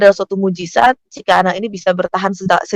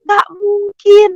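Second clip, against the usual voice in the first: high, drawn-out cry of disbelief; retold shout; 13 semitones higher, 4 dB louder, much slower than usual. Mother crying out from the trolley, acted high shout. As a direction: wail it out slowly, much higher, in acted disbelief. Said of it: "dia sudah teriak".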